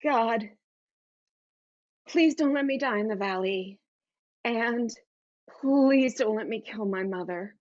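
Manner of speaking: pleading, halting prayer; praying. Acted. Daughter under the table in an earthquake, pleading prayer. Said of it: "I start praying".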